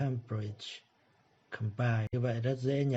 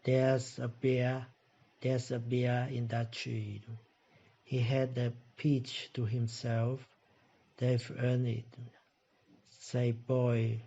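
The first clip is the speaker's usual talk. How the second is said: slow review reading; slower than usual. Shown as a demonstration. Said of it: "Như vậy đọc lại là gì".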